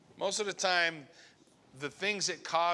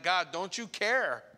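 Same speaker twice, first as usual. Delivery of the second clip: desperate cry; 4 semitones higher than usual. Retold or imitated. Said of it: "our desperate cries sound like".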